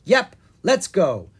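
loud, slow, eager; rally for takeoff. Acted. Parents eager to fly off.

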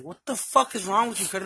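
retold angry outburst. Quarrel over the promised ride, retold anger. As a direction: act out an indignant challenge.

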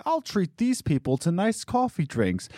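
very high, sing-song mock boss; mocking the owner. Mocking the owner treating others, high and smug. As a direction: lilt it like a smug generous boss. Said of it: "the owner's like".

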